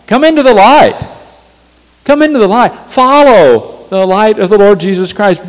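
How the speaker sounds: high, loud pulpit appeal; fervent preaching call. Acted. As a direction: call the congregation into the light.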